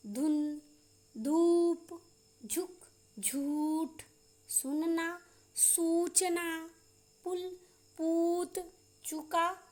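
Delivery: "धुन, धूप" word by word, short u then held oo; short-long vowel drill. Shown as a demonstration. Teacher demonstrating ऊ words to pupils, careful dictation. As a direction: draw out the ऊ in "सूचना", pausing after each word. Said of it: "ऊ का उच्चारण भी किए".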